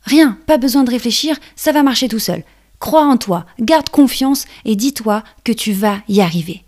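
loud encouraging caterpillar, fast start. Acted. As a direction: cheer her on warmly.

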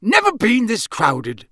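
slow, high-pitched campsite keeper; sudden remark. A narrator's reading. Campsite keeper looking over the field, high and slow. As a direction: come out with it suddenly, high and drawn out. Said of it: "he said suddenly".

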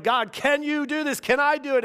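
a pastor retelling his fear before planting a church; anxious questioning. Retold or imitated. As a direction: ask God, worried and unsure. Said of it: "I began to really question".

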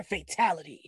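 the line as a fan wanted it; energetic catchphrase. Shown as a demonstration. Disappointed fan showing the wanted delivery, energetic catchphrase. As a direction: put some energy into the announcement. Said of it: "I wanted some energy in that shit".

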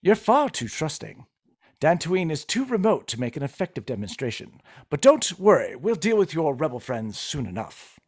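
condescending British villain; British accent. Acted. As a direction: coolly dismiss the captive in British tones. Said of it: "you can do a British accent".

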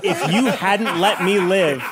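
lightly voiced grateful lizard man, laughing. Lizard man thanking Daryl, lightly voiced, laughing. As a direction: gush thanks through giggles. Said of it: "And he goes".

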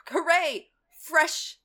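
high, loud hooray; mock cheer. Sergeant arrives announcing supplies, high and loud cheer. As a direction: cheer it like a herald. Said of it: "is like".

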